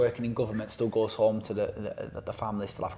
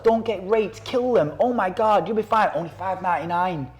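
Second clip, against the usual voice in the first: much higher, louder over-the-top ad voice; mock hyped advert; 7 semitones higher, 6 dB louder than usual. Knife advert on TikTok pitching to kids, hammed-up hype. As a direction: sell it like a cheesy TV ad. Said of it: "it's like".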